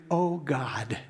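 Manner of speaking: breathless whispered plea; deputy in a tense courtroom, whispering a prayer. Retold or imitated. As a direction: whisper it to God under your breath. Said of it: "And I just prayed".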